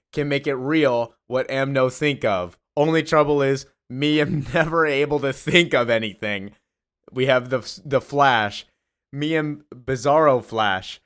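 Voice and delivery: a hint of bragging Bizarro heroes; Bizarro hero voices. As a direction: announce each hero like a proud dim copy. Voicing Bizarro League members introduced.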